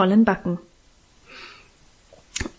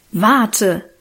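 threatening. A narrator's reading. Boy threatening his sister with a swung sandwich, menacing. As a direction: warn him off, mock menace. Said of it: "drohte er mit geschwungenem Butterbrot".

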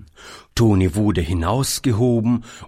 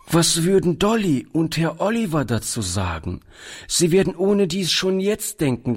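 put-on higher-pitched, worried child protest; troubled; 7 semitones higher than usual. A narrator's reading. Boy fears keeping his friends waiting, troubled high voice. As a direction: voice climbing in mild distress. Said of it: "Der Junge war so bekümmert".

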